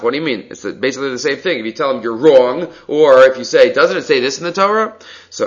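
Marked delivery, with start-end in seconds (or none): 3.7-4.9 higher questioning tune on "Doesn't it say this"; asked as a question. Shown as a demonstration. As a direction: put it as a question up to "Torah". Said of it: "you say it as a question".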